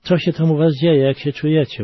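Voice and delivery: put-on father calling down to the trapped children. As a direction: shout the questions into the rubble. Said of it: "wołał ojciec".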